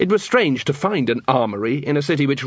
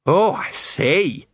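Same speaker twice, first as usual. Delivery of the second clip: slow, higher, drawn-out reaction; shocked Colon; 5 semitones higher, much slower than usual. Acted. Colon hearing of Dibbler's sausages, shocked. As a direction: stretch out the dismay.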